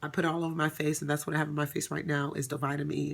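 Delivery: ordinary talk, nothing marked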